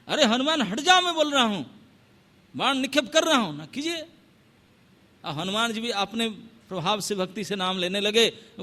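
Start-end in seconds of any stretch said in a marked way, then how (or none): 0.1-4.0 higher, pressing plea to step aside; a lord warning before he shoots; urgent warning. Acted. Rama warns before shooting.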